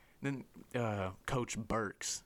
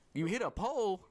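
high, incredulous echo question; imitated disbelief; 10 semitones higher, 3 dB louder than usual. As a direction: mimic a buddy who can't believe it. Friend's incredulous reply.

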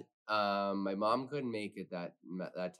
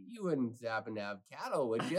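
sarcastic; 5 dB quieter than usual. Retold or imitated. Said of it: "like, sarcastically".

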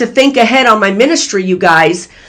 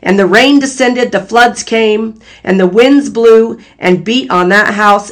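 scripture reading. Acted. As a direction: read it like a pulpit recitation. Reads scripture passage aloud.

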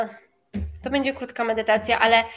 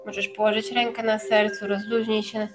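guided meditation. Acted. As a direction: ease them into relaxation. Leads a meditation.

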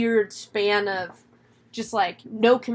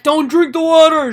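loud, higher urgent call; shouted warning; 6 semitones higher, 10 dB louder than usual. Retold or imitated. Ward warns her as she runs off, acted shouted warning. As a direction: yell it after someone running off.

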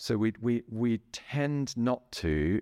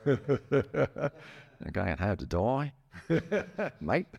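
put-on slow, drawn-out Aussie accent, higher-pitched; playful Australian accent; 6 semitones higher, much slower than usual. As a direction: ham up the Australian accent through laughter. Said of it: "Australian accent".

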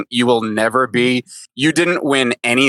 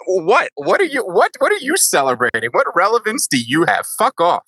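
indignant; 5 semitones higher than usual. Acted. Scolding the funks.

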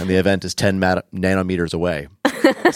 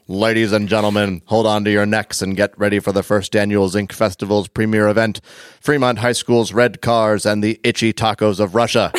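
put-on old-timey announcer. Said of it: "the old-timey announcer kicks it off".

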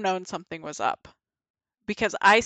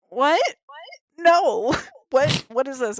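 startled high-pitched disbelief; high, sharp retold alarm; shocked what; 5 semitones higher than usual. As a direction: recoil in shock at what he's doing. Shocked at his move.

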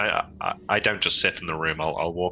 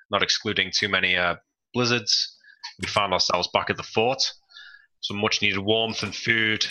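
put-on a light, amateur British accent for the recap. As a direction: narrate the recap in a mild put-on British accent, Northern leaning. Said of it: "I'll do my best British accent".

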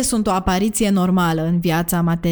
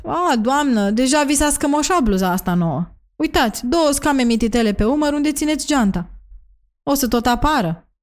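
higher-pitched, mock-casual aside to a client; offhand remark; 6 semitones higher than usual. A narrator's reading. Cristiana needles a carefree client about her new blouse, offhand. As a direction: drop it as if in passing, pitched up. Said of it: "Îi zic așa, întreacăt".

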